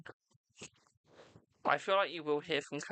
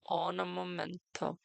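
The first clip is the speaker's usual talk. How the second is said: drawn-out stall; slower than usual. Real, not acted. Stalling while chat loads.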